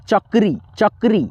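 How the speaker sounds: चक्री with a brief, unstretched री; short soft ee. Shown as a demonstration. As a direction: keep the final ee of चक्री light. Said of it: "इसका sound धीरा है".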